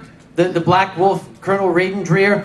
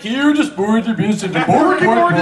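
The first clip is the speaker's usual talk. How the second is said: mock Friends line. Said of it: "Aren't you supposed to be like".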